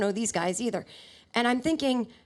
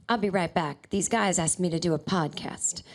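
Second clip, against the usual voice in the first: lightly voiced low impression; a singer; 5 semitones lower than usual. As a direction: lower your pitch to play a star. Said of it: "and then he said".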